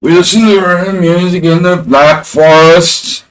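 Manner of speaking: high, loud mock German accent; a band-style German accent. Streamer crediting a hip-hop duo's bit, mock German accent. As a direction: belt it out in a hammed-up German accent. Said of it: "It's a duo's thing".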